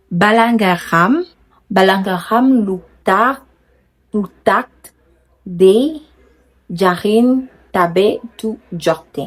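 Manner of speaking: prononcer lentement "Balangaram Lurtar" en wolof; détacher chaque syllabe de "Jarin Tabe Tu Jorte"; Wolof carefully sounded out. Shown as a demonstration. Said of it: "Je dois reprononcer ça encore une fois". (prononciation wolof lente et appliquée)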